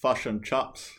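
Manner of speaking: flat Kiwi "Fish and chops"; New Zealand accent. Pretend. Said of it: "say in your best New Zealand accent".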